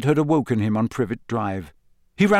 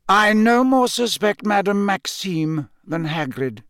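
calm; 7 semitones higher than usual. A narrator's reading. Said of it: "said Dumbledore just as calmly".

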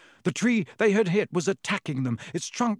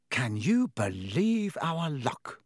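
miserable; slower than usual. Acted. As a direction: sigh it out in misery. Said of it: "said Ron miserably".

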